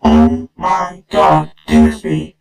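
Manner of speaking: breathless mock shock; shocked parent.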